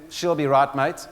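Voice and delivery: light Australian twang, a bloke brushing it off; lightly voiced Aussie bloke; casual Australian "she'll be right"; mock Aussie accent. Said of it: "I know that's said with a South African accent".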